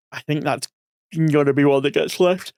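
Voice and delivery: talking through a yawn; yawning between words. Real, not acted. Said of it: "I have no idea why I'm yawning so much".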